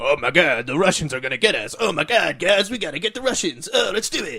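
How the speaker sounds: pumped-up, excitable, hyped gamer voice. Mocking how Call of Duty players talk, doing a Call of Duty fan impression. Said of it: "great impression of the Call of Duty fan base".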